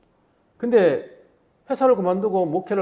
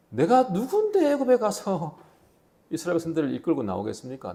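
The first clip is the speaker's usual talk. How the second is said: timid Moses. Acted. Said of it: "뭐라고 합니까?".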